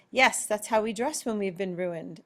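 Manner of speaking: lightly put-on British reply; understated British accent. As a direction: answer with a hint of British accent. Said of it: "break into the British accent again".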